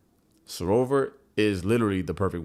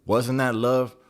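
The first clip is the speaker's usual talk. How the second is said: pleading; 3 semitones higher, 5 dB louder than usual. Retold or imitated.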